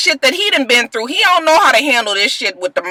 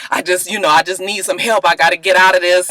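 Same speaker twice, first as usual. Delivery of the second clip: meek Willie; 5 semitones lower than usual. Retold or imitated. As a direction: shrink down and plead for help. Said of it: "Willie, he just like".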